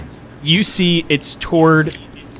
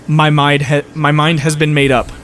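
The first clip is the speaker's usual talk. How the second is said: halting, stuttered declaration. Acted. Game master voicing a challenged opponent, stuttering. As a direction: stumble and restart after the first words. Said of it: "He stutters".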